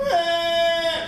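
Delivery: mock wail, held on one note; imitated child crying. Comic mimics himself crying as a kid, mock wail. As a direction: let out a brief pretend kid's wail. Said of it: "Kids don't cry like we cry".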